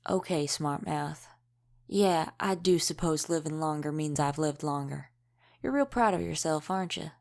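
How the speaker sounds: dry, teasing comeback; wry sarcasm. Acted. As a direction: humour a smart mouth sarcastically. Wry retort to cheeky kid.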